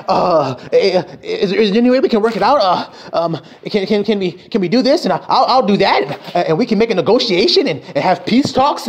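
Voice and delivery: lightly voiced stammering coward; imitating fear. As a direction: stutter nervously, asking for peace. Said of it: "and that's fear".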